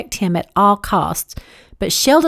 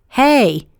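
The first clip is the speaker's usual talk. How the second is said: a louder, higher insistent hey; 4 semitones higher, 5 dB louder than usual. Acted. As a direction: press the Hey, demand her attention. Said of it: "he said more insistently".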